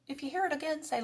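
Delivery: usual speaking voice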